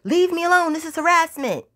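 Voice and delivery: high-pitched, acted-out hysterical protest; put-on panicked complaint; retold distressed screaming. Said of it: "crying and screaming".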